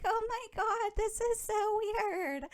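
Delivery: high, slow, giggly mock surprise. Jacqueline shading someone while giggling: high giggly voice. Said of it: "giggling and she's like".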